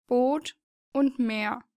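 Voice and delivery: "Boot und Meer" said slowly, with long stretched O and E; drawn-out long vowels. Shown as a demonstration. Teacher to pupil, showing long vowels, drawn out slowly. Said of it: "wie das Wort Idee".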